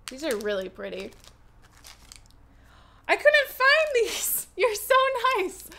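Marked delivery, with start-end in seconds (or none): 3.1-5.7 real high-pitched, thrilled thanks; delighted gratitude. Real, not acted. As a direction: gush up high with a laugh at the gift. Delighted thanks for an unexpected gift.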